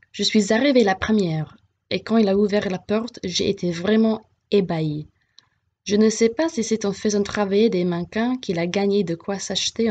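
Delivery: clear, measured read-aloud of a French passage; reading a text aloud. Acted. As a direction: read it out for the class to follow. Teacher reads French text aloud. (teacher reading a passage aloud to students, steady read-aloud)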